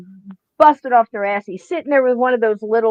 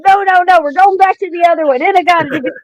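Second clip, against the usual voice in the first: raised, emphatic retold objection; mock-insistent, pitched up and louder; retold insistence; 5 semitones higher, 4 dB louder, faster than usual. Manager overruling the writer's title, emphatic retold insistence.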